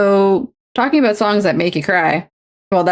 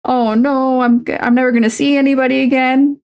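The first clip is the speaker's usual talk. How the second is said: put-on wailing child; 7 semitones higher than usual. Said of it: "I'm like".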